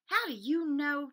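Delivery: loud, slow shocked splutter. Acted. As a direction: splutter in disbelief. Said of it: "she spluttered".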